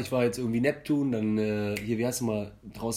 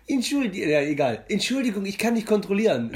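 russischer Akzent; 6 semitones higher than usual. Retold or imitated. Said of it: "ich kann den russischen Akzent nicht nachmachen".

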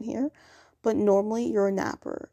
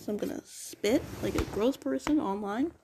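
talking with a toothbrush in mouth; while brushing teeth. Real, not acted. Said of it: "I'm brushing my teeth".

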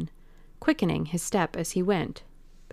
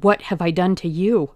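louder, pleading cry of a cornered man; panicked cry; 6 dB louder than usual. Acted. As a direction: push it out in alarm. Dorian faces a gunman.

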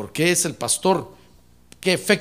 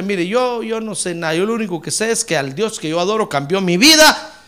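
mock testimony; 4 semitones higher, 10 dB louder than usual. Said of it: "usted dígale".

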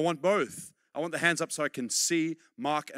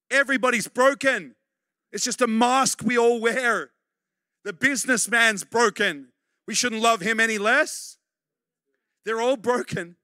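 1 fervent preaching; 4 semitones higher, 6 dB louder than usual. Real, not acted. Preaching at full force.

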